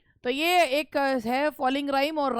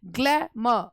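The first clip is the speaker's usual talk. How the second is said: ग्लैम split, first syllable stressed, last falling; rise then fall; much slower than usual. Shown as a demonstration. Teacher giving another falling rhyme example, ग्लैम rising then falling. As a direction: hit the start of ग्लैम, drop on a separate final म. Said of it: "पहले आवाज़ उठ रही है फिर गिर रही है".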